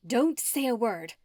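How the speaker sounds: sharp, commanding witch voice; stern order. A narrator's reading. Esmeralda ordering Arabella to stay silent. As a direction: shut her up with a command. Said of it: "Esmeralda ordered Arabella".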